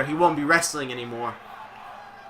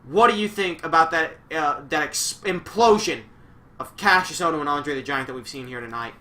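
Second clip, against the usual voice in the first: lightly voiced ringside announcer, pitch up; mock announcer; 3 dB louder than usual. Streamer playing announcer asking Dunks, mock broadcast voice. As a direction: toss it over like a TV commentator. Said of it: "on-the-scene announcer".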